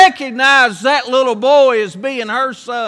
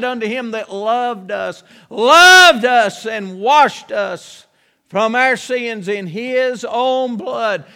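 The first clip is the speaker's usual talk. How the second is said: solemn scripture reading; slower than usual. Acted. Preacher quoting scripture slowly.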